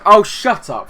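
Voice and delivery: loud, high, drawn-out dismissal; irritated outburst. Pretend. Player silencing rival manager Frank, irritated. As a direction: cut Frank off with a loud retort.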